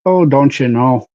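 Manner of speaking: Canadian accent with a long round oh. Shown as a demonstration. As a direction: say it like a friendly Canadian. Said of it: "That's Canadian".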